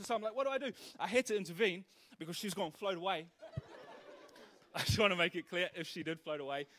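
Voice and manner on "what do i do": mock panic, pitched up; flustered dithering. Preacher replays pacing the riverbed unsure what to do, flustered. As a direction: act out helpless fretting in a higher voice.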